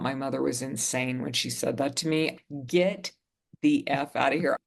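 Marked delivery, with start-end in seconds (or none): 2.7-4.6 higher, louder furious yell, re-enacted; snapping. Yelling at her mother to stop calling, higher and louder in a re-enacted rage. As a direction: tell her off, outraged. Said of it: "I just snapped".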